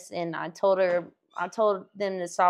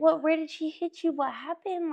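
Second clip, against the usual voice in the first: gentle probing teacher; 8 semitones higher than usual. Retold or imitated. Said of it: "What'd you do".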